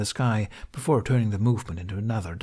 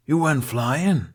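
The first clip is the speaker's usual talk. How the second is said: surprised question; 5 semitones higher, 4 dB louder, slower than usual. A narrator's reading. Halfdan surprised.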